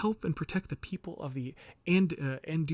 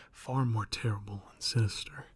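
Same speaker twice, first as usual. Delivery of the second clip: whisper; 4 semitones lower than usual. A narrator's reading. Ominous line in the reading.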